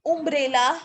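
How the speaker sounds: अम्ब्रेला begun with "oo", as "oombrella"; "oo" vowel demo. Shown as a demonstration. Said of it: "अब लेकिन यूनिवर्सिटी बोलो आप".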